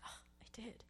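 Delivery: barely audible whispered reply; tiny whispered admission; hushed realization. Retold or imitated. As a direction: whisper it as if caught out. Her startled reply to the Lord.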